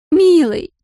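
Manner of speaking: high, demanding "Милый!" falling firmly; drunk woman insisting. A narrator's reading. Drunk Larisa insists to Ramsey, high falling "Милый!". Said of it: "Вид у неё был грустный, рассеянный".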